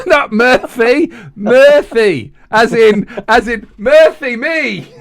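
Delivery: Murphy said with a lisp, "Murphy" for "Murthy". Shown as a demonstration. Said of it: "I've got a lisp".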